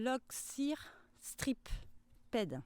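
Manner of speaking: "l'oxyr strip ped" sounded out slowly, syllable by syllable, in French-accented English; struggling English name. Real, not acted. Gardener naming a tomato to viewers, slow halting English. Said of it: "C'est pas facile à prononcer".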